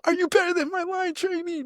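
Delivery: high barking drill sergeant voice, well above his own; mock drill sergeant yell; imitating drill sergeant. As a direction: bark it like a drill instructor mocking a recruit. Drill sergeant yelling at recruits.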